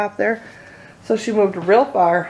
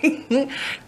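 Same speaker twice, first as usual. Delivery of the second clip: a short, soft nervous giggle; quiet embarrassed chuckle; nervous laugh; 4 semitones higher, 4 dB quieter than usual. Real, not acted. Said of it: "You guys are making me nervous today".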